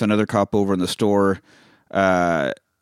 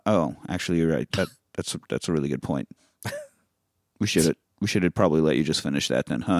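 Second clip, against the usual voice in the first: softer and lower, meekly backing down; sheepish concession; 6 semitones lower, 6 dB quieter than usual. Retold or imitated. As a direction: deflate and admit he was right.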